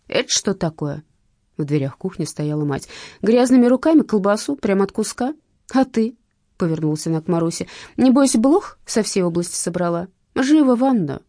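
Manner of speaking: stern, loud scolding mother. Acted. Mother scolding Masha and dog.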